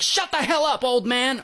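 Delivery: high-pitched mock yell back. Son yelling back at his father to defend his mom, mock yell. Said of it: "he starts screaming back".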